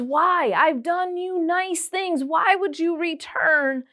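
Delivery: mildly wronged, stretch the words out high; acted reproach. Joseph questioning his brothers, acted reproach.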